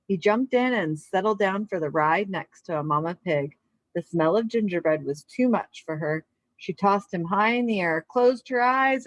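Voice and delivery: calm read-aloud storybook voice; story narration. A narrator's reading. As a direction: read it to a class of kids, unhurried. Reads picture book aloud.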